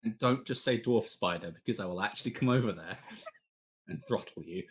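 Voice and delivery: loud, laughing warning; half-joking threat; mock threat.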